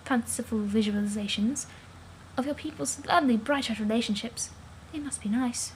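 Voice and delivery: quiet, gentle, a little sad; soft wistful Calliope. Acted. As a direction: say it softly, longing for what you lack.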